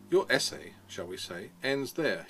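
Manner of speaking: put-on dry, mildly sarcastic old teacher; a hint of a teacher's sneer. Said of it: "he said in this very sarcastic voice".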